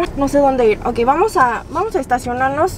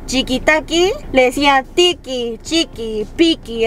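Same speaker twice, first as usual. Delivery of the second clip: fake foreign language. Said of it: "lo único que me sale".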